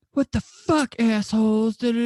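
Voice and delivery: high, loud mock yell of outrage; retold angry yell. Angry passenger yelling at the car that missed him, high outraged yell.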